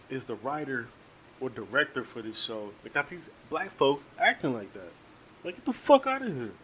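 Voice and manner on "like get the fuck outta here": much higher, scoffing dismissal. Real, not acted. Dismissing the show's writers, scoffing. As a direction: wave it off in disgust.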